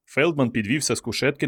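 ordinary delivery, nothing marked

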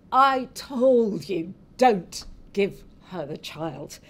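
slow, emphatic telling-off; reproachful scolding. Acted. Husband reproaches wife for handing over the child, scolding. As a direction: lean hard on each word, slowly.

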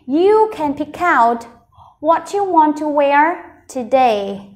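slow, connected read with one short break; whole-sentence model. Shown as a demonstration. Teacher repeating the sentence for learners, slow and connected. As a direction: read it smoothly at a measured pace. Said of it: "Mình sẽ cùng đọc cả câu này".

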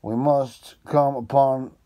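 a keen detective thinking aloud; Holmes voice. Acted. Holmes speech held loud.

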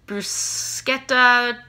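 bruschetta said with a hard "sk", broo-SKET-ta; slow, careful "brus-KET-ta". Shown as a demonstration. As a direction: draw out "bruschetta" with a k sound in the middle. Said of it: "Did you say it bruschetta or bruschetta".

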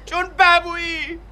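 slow punched insults rising to a yell; angry shouting. Acted. Husband yells at wife, demanding she come, furious. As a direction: spit each insult at her.

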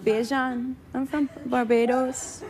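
put-on a lightly done Bajan accent, slow and quiet; understated Barbados accent in a singer's voice; a hint of a Bajan lilt; impression of a singer. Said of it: "That's my impression" of the singer.

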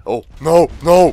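loud, alarmed "no, no"; panicked cry. Real, not acted.

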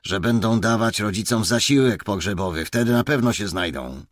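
hissed command; hissed order. Acted. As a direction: spit the order at the officer. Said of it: "syknął Głód".

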